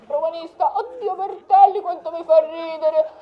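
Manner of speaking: high, loud burst of laughter; laughing loudly. Acted. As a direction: crack up laughing.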